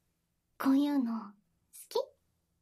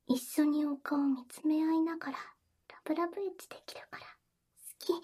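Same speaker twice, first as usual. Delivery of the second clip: whispering. Acted. Intimate whispered roleplay.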